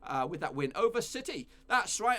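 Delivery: ordinary talk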